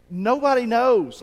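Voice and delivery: loud, slow, emphatic declaration. Real, not acted. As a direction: land it hard and slow. Preacher exclaims emphatically.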